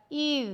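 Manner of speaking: اِذ with a clear short ee vowel; correct ee sound. Shown as a demonstration. Teacher corrects students to the ee sound of اِذ. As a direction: say اِذ with an ee, not an eh. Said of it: "ای، حمزہ زیر دال".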